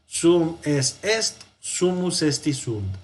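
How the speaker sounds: slow, measured drill recitation; recitado para memorizar. Shown as a demonstration. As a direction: recite it in two even groups for students to memorize. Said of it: "Lo podemos repetir varias veces". (recitado lento y acompasado para memorizar)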